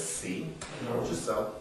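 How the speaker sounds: whispered, smug told-you-so; whispered mock gloat. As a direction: hiss it under your breath like a smug onlooker. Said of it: "white America watches and says".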